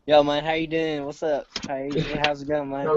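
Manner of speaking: lightly put-on backwoods American accent. Shown as a demonstration. Showing what country accent is meant, backwoods American twang. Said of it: "like, backwoods, uh, America".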